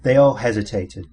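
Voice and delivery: ordinary delivery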